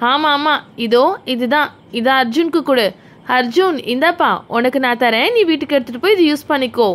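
lightly voiced kindly mother, a little low; mother figure. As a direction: play a mum offering a gift. Voices the mother in doll play.

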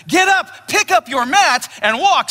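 Jesus ordering the invalid to rise, emphatic; emphatic command. Retold or imitated. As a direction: bark it as a command. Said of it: "It's emphatic".

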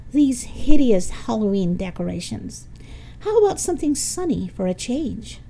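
lightly voiced disdainful candidate; Rhonda, disdainful candidate. Rhonda dismisses the Halloween decorations, mildly disdainful.

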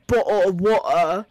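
exaggerated British pronunciation; mock British accent. Making fun of how British people talk, mock British accent. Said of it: "British people talk funny".

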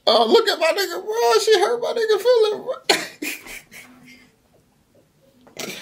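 very high, wheezy laughing speech; laughing hard. Real, not acted. Reactor pointing out the hurt guy, laughing helplessly. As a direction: squeal it out through real laughter.

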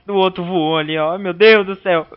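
high, loud excited cry; excited shout. Real, not acted. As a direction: exclaim it in amazement. Panicked game shouting. (grito empolgado)

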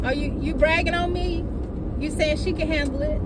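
high, disbelieving questions; incredulous. Real, not acted. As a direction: rhetorical disbelief at God.

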